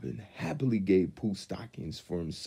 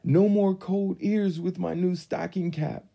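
Piglet voice; 12 semitones higher, 5 dB louder than usual. A narrator's reading. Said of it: "Piglet said".

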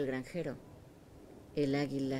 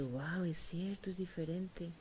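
surprised whisper; 2 semitones higher, 4 dB quieter, slower than usual. Acted. Eaglet sees its curved beak.

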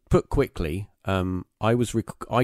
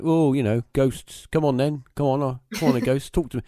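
raised, teasing sing-song calling out to ghosts; a friend scoffing as he calls the ghosts, higher mock summons; 6 semitones higher than usual. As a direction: imitate a sceptic mockingly summoning spirits. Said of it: "his attitude was like".

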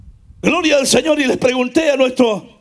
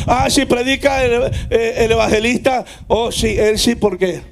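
low, offhand mock approval; mimicked choosy churchgoer; 4 semitones lower than usual. Churchgoers choosing which preacher to hear, mimicked low voice. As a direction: imitate someone picking favourites, pitched down.

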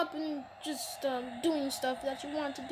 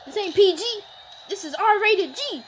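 louder repeat; 6 semitones higher, 8 dB louder than usual. Real, not acted.

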